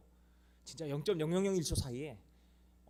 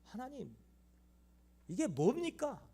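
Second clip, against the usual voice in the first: high, anguished cry to God; 9 semitones higher than usual. Retold or imitated. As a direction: lament in a raised, pained voice. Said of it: "소리소리를 질렀어요".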